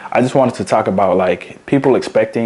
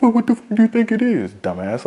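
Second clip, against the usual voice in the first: exasperated outburst; 12 semitones higher than usual. Real, not acted. Exasperated rant.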